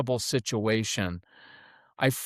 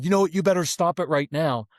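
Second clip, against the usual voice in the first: mildly heated, raised parental warning; amped-up dad; 2 semitones higher, faster than usual. Acted. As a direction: snap into a mock dad ultimatum. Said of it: "my dad is really amped up".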